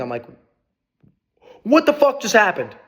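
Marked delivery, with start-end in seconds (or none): 1.6-2.7 higher and louder, stunned what the fuck; can't believe the luck, higher and louder; stunned disbelief. Retold or imitated. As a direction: blurt it out in shock. Stunned after getting ringside tickets.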